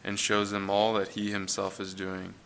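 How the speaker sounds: measured, solemn Bible reading aloud; scripture reading. Acted. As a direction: read the verses as holy words, steady and grave. Scripture reading before the sermon.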